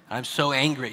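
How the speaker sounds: mock anger with lifted eyebrows; happy-eyed anger. Shown as a demonstration. Parent showing you can't sound angry with happy eyes, lightened mock anger. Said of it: "Lift your eyebrows up".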